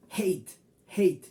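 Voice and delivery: hate said heit with the ei glide; English hate. Shown as a demonstration. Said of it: "pero el sonido es A". (hate pronunciado heit)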